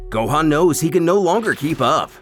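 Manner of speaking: ordinary delivery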